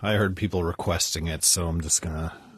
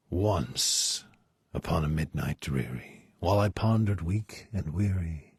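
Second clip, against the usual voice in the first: dramatic poem reading. Acted. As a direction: recite the poem with gothic drama. Reads the poem aloud.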